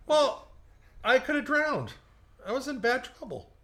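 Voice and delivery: whiny playful self-defense; mock defensive. Real, not acted. Defending his drowning story.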